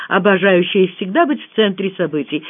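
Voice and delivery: usual speaking voice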